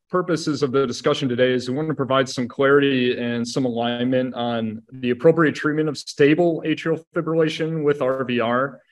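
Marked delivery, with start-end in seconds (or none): 6.0-8.8 emphasis placed on "stable", the rest left unstressed; stress on STABLE. Real, not acted. Doctor narrowing the discussion to certain patients, stress on "stable". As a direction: lean on "stable" as the key word. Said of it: "emphasis on stable".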